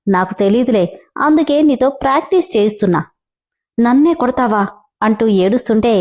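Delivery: lively storyteller reading a serial aloud; story narration. A narrator's reading. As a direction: tell the tale with a voice for each character. (కథ చదువుతున్న స్వరం)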